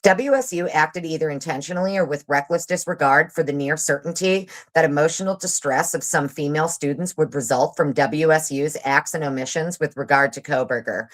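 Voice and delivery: usual speaking voice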